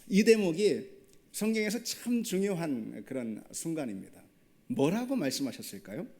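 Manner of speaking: ordinary talk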